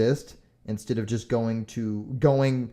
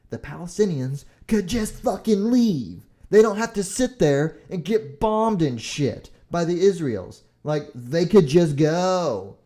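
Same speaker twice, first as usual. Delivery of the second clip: loud, raised-pitch heated outburst; angry rant; 4 semitones higher, 6 dB louder than usual. Real, not acted. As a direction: push it out in real exasperated anger. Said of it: "Getting angry here".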